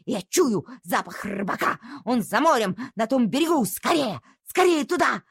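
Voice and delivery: excited, pressing, rising to a cry; urgent dog. Acted. Dog urging the doctor across the sea, excited. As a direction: hurry everyone along.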